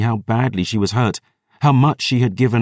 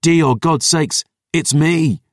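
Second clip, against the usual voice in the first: roaring; 6 semitones higher, slower than usual. Acted. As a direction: bellow her name to reach her. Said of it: "he roared".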